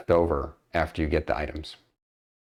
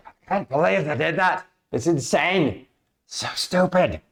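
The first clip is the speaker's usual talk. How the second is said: upset; 9 semitones higher than usual. Acted. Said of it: "Mister Zolk's like".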